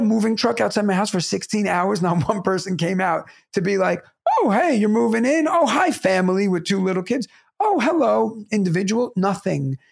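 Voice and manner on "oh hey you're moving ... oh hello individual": welcoming neighbor. Retold or imitated. Imagined friendly neighbours' welcome.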